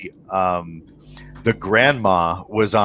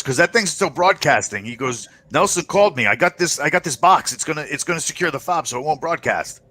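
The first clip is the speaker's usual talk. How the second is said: lightly voiced contact; 6 semitones higher than usual.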